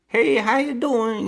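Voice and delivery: high, slow hammed-up Italian-ish greeting; mock dubbed Italian accent; mock overdubbed accent. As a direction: imitate a badly dubbed accent. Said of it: "the only guy with a overdub accent".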